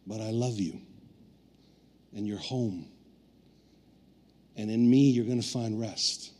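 voicing God's gentle love; tender. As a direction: comfort a hurting child gently. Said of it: "he also said".

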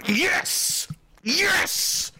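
high, squealed celebratory yes; mock elation. Mock celebrating the gas price.

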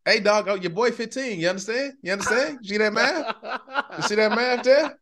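high, pumped-up boasting; excited bragging. Real, not acted. Teasing his co-host about the fifteen percent, high and excited. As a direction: brag with a laugh in it.

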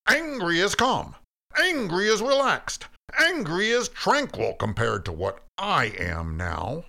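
high, loud furious outburst easing at the end; almost screaming. A narrator's reading. Cain rages back at God, almost screaming. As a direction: explode with rage, nearly a scream. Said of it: "he was almost screaming when he finished".

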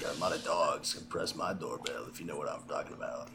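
suggestive whisper. Pretend. Suggestive innuendo.

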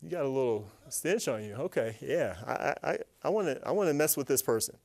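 scheme quietly over your prey; quiet sly enemy. Pretend. Enemy sniffing out a hardened heart, sly and quiet. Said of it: "he's like".

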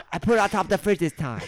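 high mom voice breaking into laughs; laughing mom. Pretend. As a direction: mom laughing while she scolds.

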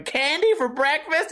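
put-on high, slow, delighted kid's question; a happy kid in the skit asks about candy for breakfast. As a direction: ask it like a thrilled little kid. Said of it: "some happy-ass kid going".

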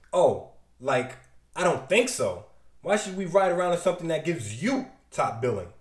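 lightly voiced sulky teen. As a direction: scoff it like a bratty kid. Impulse sulks, arms folded.

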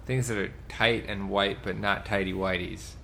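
put-on Staten Island accent. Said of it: "explore this Staten Island man".

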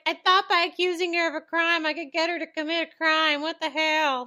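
comic exasperated complaint; mock indignant. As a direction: play her thwarted fury for laughs. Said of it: "it's funny how mad she is".

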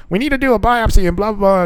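a hint of a bossy doctor; mock stern doctor. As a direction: rattle off the doctor's warning. Doctor voiced in story.

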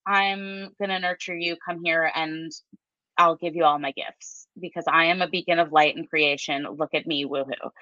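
lightly voiced queenly nurturer, sinking low; Empress. Tarot card Empress inviting people to her, serenely nurturing. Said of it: "The Empress just, like, she is sitting".

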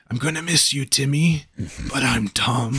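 hammed-up dying farewell; Tom from the Tub. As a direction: say goodbye from a cartoon deathbed. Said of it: "on his deathbed, he's just like".

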